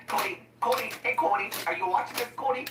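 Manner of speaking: high rising call to someone far off. Acted. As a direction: sing out his name to get his attention. Calling out to Cody.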